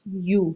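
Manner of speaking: یو as a slow "yuu"; drawn-out rounded یو; clear ya sound. Shown as a demonstration. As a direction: sound the y in یو and hold the u. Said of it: "یا کی آواز ہوتی ہے یو".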